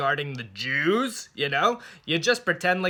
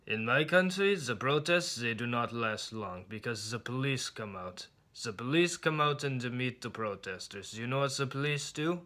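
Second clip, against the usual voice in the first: dentist's voice; 3 semitones lower, 6 dB quieter than usual. Retold or imitated. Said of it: "He's like".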